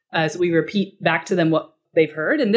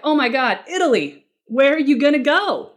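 mock eager interest; 6 semitones higher than usual. Enthusiastic advisor example.

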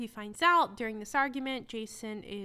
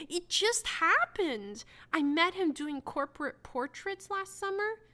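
mock whiny excuse; 5 semitones higher than usual. Mock voicing Lucinda's excuse.

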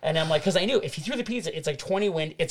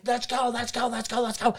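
higher, hurried repeated urging; imitating rushed captain; 6 semitones higher than usual. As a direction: hurry them along, mock impatient. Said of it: "he's like".

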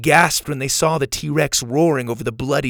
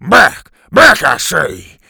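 loud, slow warning yell; threatening shout; 4 semitones higher, 9 dB louder, slower than usual. A narrator's reading. Teacher threatening the T-Rex, loud warning. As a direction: drive the dinosaur back. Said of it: "threatened him with a stick".

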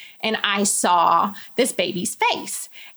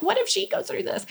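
laughing worry; 10 semitones higher, 5 dB quieter than usual. Real, not acted. Laughing through tears about daughter.

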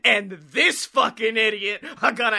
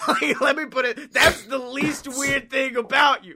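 excited teasing; 6 semitones higher than usual. Acted.

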